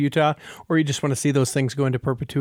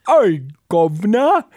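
slow, louder mock Cockney greeting; 3 semitones higher, 4 dB louder, slower than usual. Host jokes in a stereotyped English accent. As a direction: tip your cap like a cartoon Londoner. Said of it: "depiction of English folks".

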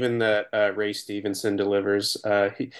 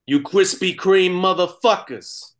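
higher, slow movie line impression; 7 semitones higher than usual. Shown as a demonstration. Taking a turn at the movie line, higher and slow. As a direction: stretch out the Kreme. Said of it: "Preston, you start".

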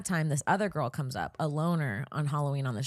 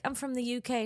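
lightly acted quote, raised pitch; retold introduction; 7 semitones higher than usual. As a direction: quote him introducing himself, a little high. First retelling of his introduction.

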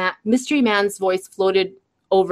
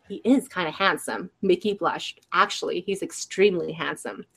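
soft inner thoughts; 7 dB quieter than usual. Acted.

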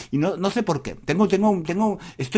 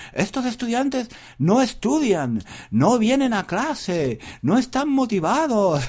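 higher, slow complaining teacher voice; mocking the professors; 5 semitones higher, slower than usual. A young teacher mocking old professors' complaints, lightly voiced. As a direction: whine like a grumpy old professor. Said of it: "Yo escuchaba a los profesores que decían".

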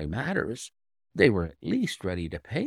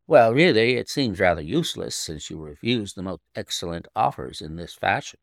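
sharp; 2 semitones lower, 5 dB louder than usual. Acted. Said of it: "said she sharply".

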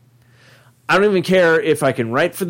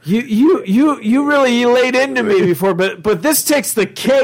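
hurt John voice; 5 semitones higher than usual. Pretend. Voicing John answering Garfield.

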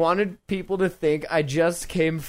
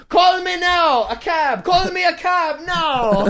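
psychic hotline voice; 10 semitones higher, 3 dB louder than usual. Retold or imitated. Mock Miss Cleo voice.

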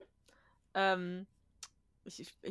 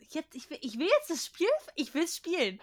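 impatient whining; 6 semitones higher than usual. Retold or imitated. Impatient gamer voiced in quote.

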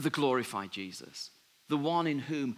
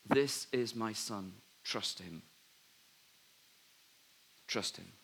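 voice of God; 4 semitones lower, 5 dB quieter, slower than usual. Retold or imitated. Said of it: "to tell the disciples about Jesus".

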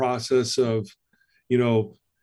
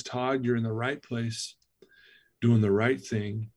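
gentle inner voice; 2 semitones lower, 5 dB quieter than usual. Retold or imitated. Voice heard during a prayer.

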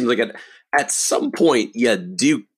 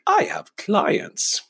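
mock boastful; 12 semitones higher, much slower than usual. Mock subtle client drop.

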